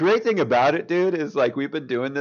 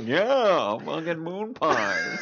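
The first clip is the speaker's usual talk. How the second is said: imitating Nick Cage; 4 semitones higher, much slower than usual. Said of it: "you were just like".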